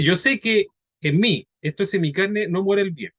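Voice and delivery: slow, careful reading. Real, not acted. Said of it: "la voy a leer despacito".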